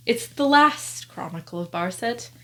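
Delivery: "last" leaned on with a slight rise; stress on last. Shown as a demonstration. Booktuber stressing that "last" is the final book, with weight on "last". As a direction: dwell on the word "last". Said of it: "Emphasis on last".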